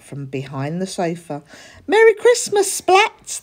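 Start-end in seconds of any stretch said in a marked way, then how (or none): 1.9-3.4 high loud joyful shout; family leaping out to cheer. A narrator's reading. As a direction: surprise him with a big cheer. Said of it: "they cheered".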